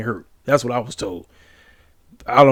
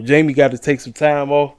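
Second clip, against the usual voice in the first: yawning. Real, not acted. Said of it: "apologize for yawning".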